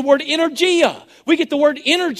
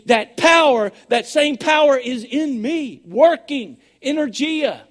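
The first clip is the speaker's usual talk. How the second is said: getting excited; 2 semitones higher than usual. Real, not acted. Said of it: "I get just a little bit excited about that".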